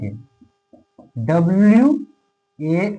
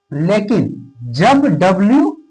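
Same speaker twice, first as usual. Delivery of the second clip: drawn out slowly; 2 semitones higher, much slower than usual. Shown as a demonstration. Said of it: "slow dictation while writing".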